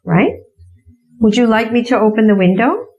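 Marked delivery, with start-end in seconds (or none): 1.2-2.9 polite offer demo. Shown as a demonstration. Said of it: "you could say".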